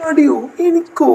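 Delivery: mock surprise. Teasing denial of laziness.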